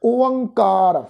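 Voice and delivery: ਓਅੰਕਾਰ drawn out as o-ang-kaar; pronunciation demo. Shown as a demonstration. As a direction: model ਓਅੰਕਾਰ slowly, falling at the end. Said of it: "ਉਚਾਰਨ ਬਣੇ-, ਬਣੇਗਾ ਜੀ". (ਓਅੰਕਾਰ ਦਾ ਲਮਕਵਾਂ ਉਚਾਰਨ)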